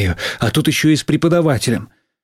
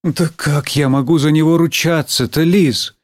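higher-pitched protesting teacher; doubtful teacher; 5 semitones higher than usual. Acted. Teacher doubting the boy has repented, protesting. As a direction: object to vouching for someone.

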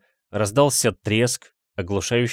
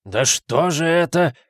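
slow, higher lament in despair; 7 semitones higher, 4 dB louder than usual. A narrator's reading. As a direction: echo the words in despair. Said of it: "в отчаянии вторил ему". (в отчаянии, медленно)

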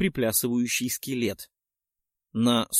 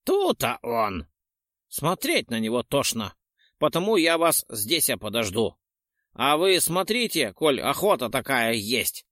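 put-on old man voice. Old caretaker voice.

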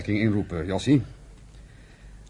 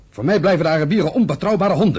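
louder, spitting contempt; a touch of scorn, raised voice; contemptuous outburst; 3 semitones higher, 4 dB louder than usual. Acted. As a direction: bite down on every word. Brothers' quarrel over Arabs.

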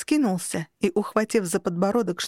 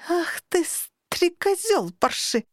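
much higher, slow furious outburst; outraged cry; 9 semitones higher, slower than usual. A narrator's reading. Heroine at the incubus on hearing the truth, high furious cry. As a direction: spit the insult at him.

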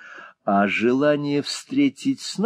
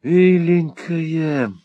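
much higher, slow, outraged; indignant interruption; 8 semitones higher, much slower than usual. A narrator's reading. Young lord interrupting his friend, much higher. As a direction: cut in, offended on her behalf. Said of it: "перебил молодой лорд".

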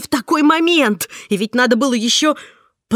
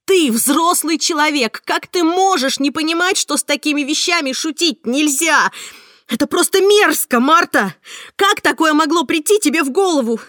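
much higher, louder, relentless scolding; furious tirade; 7 semitones higher, 5 dB louder than usual. Acted. Heroine berates Marta for the cruel prank, furious shouting. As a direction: keep yelling, outraged and sarcastic.

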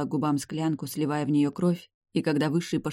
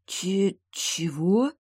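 hiccupping shock; 5 semitones higher, much slower than usual. A narrator's reading. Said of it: "икнула я".

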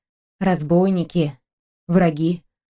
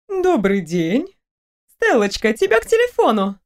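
put-on older woman's voice. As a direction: answer the phone like a kind mother-in-law. Mother-in-law answers phone.

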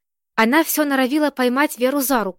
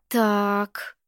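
a long, drawn-out "Так", a bit softer; 4 dB quieter than usual. A narrator's reading. Vera stalling over bad news, drawn-out "Так". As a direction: stretch the word out while thinking. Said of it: "протянула Вера".

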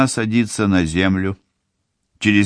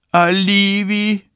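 high, slow tearful question; crying; 13 semitones higher, slower than usual. A narrator's reading. Mother asks tearfully for her other daughter, high and slow. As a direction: ask through tears for the younger girl. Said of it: "плачет мать".

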